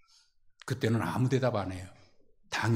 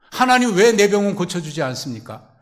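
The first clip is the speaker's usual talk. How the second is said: pleading cry; 7 semitones higher, 9 dB louder than usual. Acted. Paul's complaint to God acted out.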